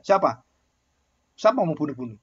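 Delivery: loud, sharp questioning; stern demand. Retold or imitated. A pastor confronting a student who threatened someone, stern and loud. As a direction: confront him like an angry teacher.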